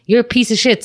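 angry retort. Retold or imitated. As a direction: tell off the bully who threatened her little brother. Confronting neighbor threatening her brother.

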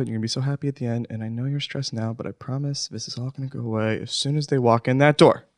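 soft, hushed pep talk to yourself; self-soothing whisper. Acted. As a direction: whisper to calm your nerves. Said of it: "So that's what I'm doing".

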